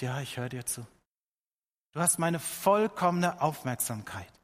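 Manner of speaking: God quietly assuring David of full attention; gentle God voice. Acted. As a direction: answer softly like a loving father. God answers David, tender reply.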